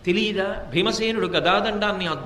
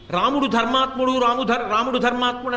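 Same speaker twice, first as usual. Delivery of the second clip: mocking Ravana; 3 semitones higher, 4 dB louder than usual. Ravana mocking Sita's praise.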